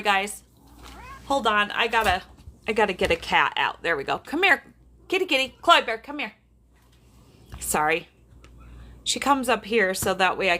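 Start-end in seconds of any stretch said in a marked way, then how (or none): 4.2-6.3 high sing-song kitty call; calling the cat. Real, not acted. Owner coaxing her cat Chloe out, high sing-song calling. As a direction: coax the cat out in a higher pet voice.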